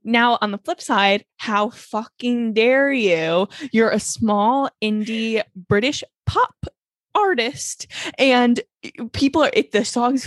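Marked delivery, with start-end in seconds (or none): 1.4-7.9 slow, emphatic mock scolding; hammed-up indignation, very slow; mock outrage. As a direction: draw out each word as if scandalised.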